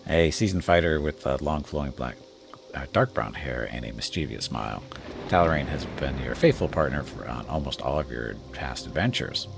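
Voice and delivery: steady storyteller read; story narration. Acted. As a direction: set the scene like a game master. Reads the game's scene text.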